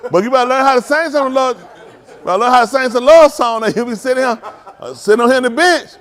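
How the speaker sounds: talking through laughter; teasing with a laugh in the voice. Real, not acted.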